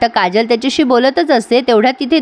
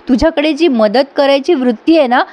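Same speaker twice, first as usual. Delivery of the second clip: mock praise dripping with sarcasm; lightly voiced sarcastic wife; sarcastic taunt. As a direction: praise him sweetly, meaning the opposite. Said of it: "एवढा जबरदस्त टोमणा मारला".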